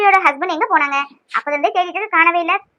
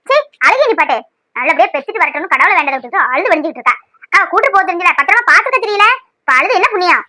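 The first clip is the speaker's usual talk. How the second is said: scolding. Acted. Aunt scolding a crying woman.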